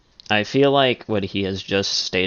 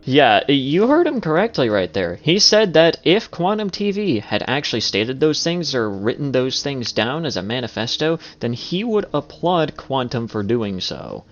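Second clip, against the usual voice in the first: heated outraged rant; 5 semitones higher, 4 dB louder than usual. Real, not acted. Commentator's outraged escalating rant.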